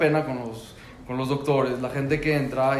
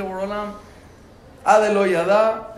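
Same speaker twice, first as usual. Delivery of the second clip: fervent prayer; 6 semitones higher, 7 dB louder than usual. Retold or imitated. Repeated prayer, more fervent.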